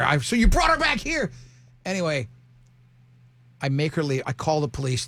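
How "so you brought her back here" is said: retold incredulity. Retold incredulous reply to friend.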